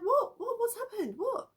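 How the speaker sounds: a mother shocked by her daughter's scream; alarmed mother. Retold or imitated. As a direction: fire the questions in panic. Mother responds to screaming child.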